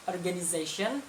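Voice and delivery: organization with an American ize, rising at the end; American pronunciation. Shown as a demonstration. Teacher demos organization in American English. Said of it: "kalau American itu".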